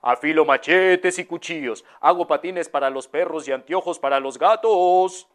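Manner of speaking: lightly voiced peddler crying wares; a hint of a street hawker's cry; street vendor's call. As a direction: sing out wares passing down a street. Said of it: "un señor que decía".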